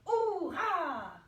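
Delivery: hurrah yelled high and loud; shouted hurrah. Shown as a demonstration. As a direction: really cry out hurrah. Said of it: "crie hurrah".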